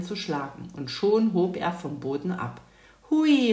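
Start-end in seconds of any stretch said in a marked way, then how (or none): 3.1-3.5 high, loud whoop of delight; joyful cry. A narrator's reading. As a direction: shout it out with glee as you take off. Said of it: "rief Mathilda".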